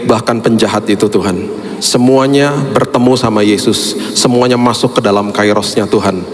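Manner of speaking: steady earnest prayer voice; closing prayer. Acted. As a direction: pray over the congregation, fervent and steady. (doa penutup yang khusyuk dan mantap)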